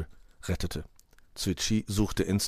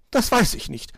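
high, louder bird voice; magpie retort; 5 dB louder than usual. A narrator's reading. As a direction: answer high and brisk as a magpie.

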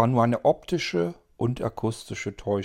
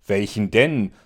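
incredulous; 7 dB louder than usual. Acted. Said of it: "fragte Melly nun ungläubig".

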